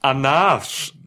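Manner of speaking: name spelled in reverse; backwards speech. Shown as a demonstration. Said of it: "Und jetzt Shayna Baszler, bitte". (Name rückwärts gesprochen)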